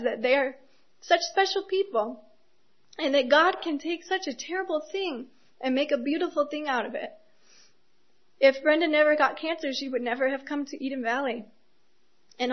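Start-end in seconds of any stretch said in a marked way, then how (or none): 1.0-7.1 tearful. Real, not acted. Preacher still crying while praising Brenda and Carlos. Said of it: "I don't know why I'm crying". 8.4-11.4 real tears, lifted and catching; tearful. Real, not acted. Preacher repeating the thought, tearful about Brenda.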